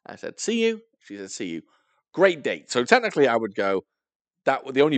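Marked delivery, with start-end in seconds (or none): 0.4-0.8 high-pitched imitated goodbye; retold eager goodbye. Boy to his date after a quick kiss, high goodbye. 1.3-1.6 low, soft imitated reply; retold subdued goodbye. Girl answering the boy's goodbye, low and soft.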